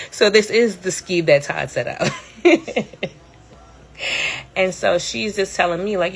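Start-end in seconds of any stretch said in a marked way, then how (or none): 0.1-3.0 laughing through the line. Real, not acted. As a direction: chuckle it out, amused. Laughing while retelling friend's joke.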